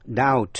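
"Doubt" said "dowt" with no b; silent b. Shown as a demonstration. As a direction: drop the b in "Doubt". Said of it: "vần B không đọc".

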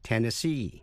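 "Tennessee" stressed on final SEE; last-syllable stress. Shown as a demonstration. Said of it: "Nhấn mạnh vào vần cuối C". ("Tennessee" nhấn vào vần cuối SEE)

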